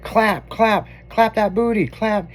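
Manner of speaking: lightly mimicked party MC, punchy repeats; party mic announcer. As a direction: imitate an announcer chanting to the crowd. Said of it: "on a microphone doing the announcing".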